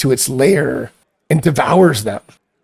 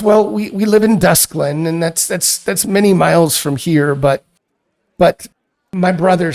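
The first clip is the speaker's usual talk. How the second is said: lightly voiced worried sister; 3 semitones higher than usual. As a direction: plead gently about a missing brother.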